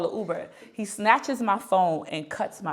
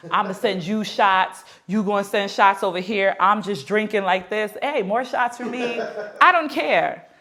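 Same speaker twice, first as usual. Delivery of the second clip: mock bravado; 4 dB louder than usual. Acts out drinking contest.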